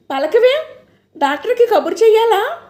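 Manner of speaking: high, urgent pleading; frightened plea to wake her; anxious. A narrator's reading. Jayanti shaking grandma, anxious high plea.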